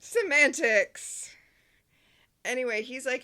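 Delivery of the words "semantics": slow, drawn-out quip. Real, not acted. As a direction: stretch the word long and loud. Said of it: "drawn-out quip".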